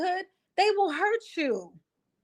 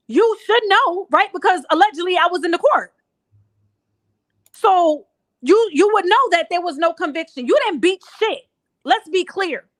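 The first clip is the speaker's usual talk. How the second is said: louder, pointed and sarcastic; scolding Gail, loudly, for lying about the court case; heated callout; 3 semitones higher, 5 dB louder than usual. Real, not acted. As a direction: put her on the spot, hard. Calling out Gail directly.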